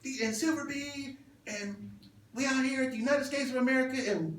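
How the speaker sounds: high-pitched mock artist recording a drop; playful high imitation of a woman's drop; imitated radio drop. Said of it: "And she kept saying".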